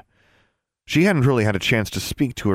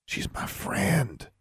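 soft, drawn-out high whisper; 9 semitones higher, 9 dB quieter, much slower than usual. A narrator's reading. Angelique confiding about her friend, whispered. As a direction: say it hushed and slow, pitched up. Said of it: "Angelique whispered".

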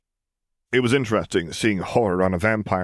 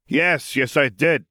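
a touch higher, contented; pleased Frank; 6 semitones higher, slower than usual. Acted. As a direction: say it happily.

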